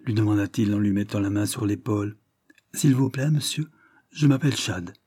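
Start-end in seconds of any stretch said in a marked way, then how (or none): 2.7-4.9 a hint of a sly urchin, pitched a little higher; lightly voiced street boy. Chad answers the gentleman, a touch higher and wary. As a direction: play the ragged boy, humble and wary.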